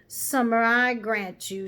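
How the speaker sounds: loud, slow Cockney concession; Cockney cabby. A narrator's reading. Cabby granting the horse's point, Cockney.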